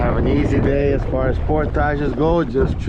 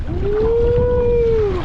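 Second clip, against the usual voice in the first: whoop; 3 dB louder than usual. Real, not acted. Canoeist cheering in rough water.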